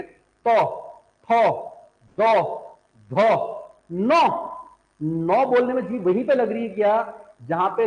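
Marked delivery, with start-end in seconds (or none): 0.0-4.2 तो, थो, दो, धो, नो as separate sounds, a pause after each; isolated demo syllables तो, थो, दो, धो, नो; letter-sound demo. Shown as a demonstration. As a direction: sound out तो, थो, दो, धो with the tongue on the teeth, then नो. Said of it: "बोलने में जीभ कहां लग रही है".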